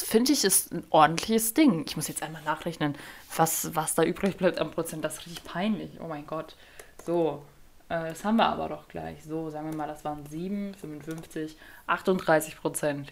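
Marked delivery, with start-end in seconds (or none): 1.9-13.1 soft under-the-breath calculating; half-voiced working it out aloud; quiet muttering to herself. Real, not acted. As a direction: mumble the numbers to yourself, much softer. Muttering to herself while recalculating.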